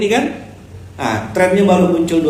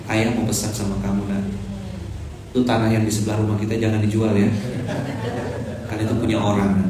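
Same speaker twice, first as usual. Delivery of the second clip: mock tender dad; 5 semitones lower, 8 dB quieter than usual. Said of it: "ada yang bergurau-gurau".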